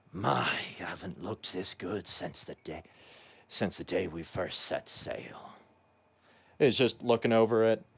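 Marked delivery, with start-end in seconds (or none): 0.2-5.6 low, half-whispered muttering. Voicing Skirbo talking to his ship: half-whispering to his ship. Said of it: "kind of whispering".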